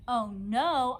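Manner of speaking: put-on real upset little-girl yelp; upset holler. A narrator's reading. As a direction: holler it in a panic. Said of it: "I hollered, real upset".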